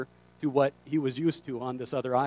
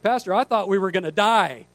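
higher, mock-frightened exclamation; retold alarm; 4 semitones higher, 4 dB louder than usual. Boat driver confessing to pastor next day, mock alarmed. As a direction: blurt it in comic alarm.

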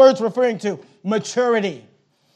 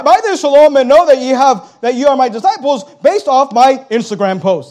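quick, louder mock version of the verse; mocking misquote; 5 dB louder than usual. Shown as a demonstration. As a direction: toss the verse off as a careless misquote. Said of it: "That's not what he said".

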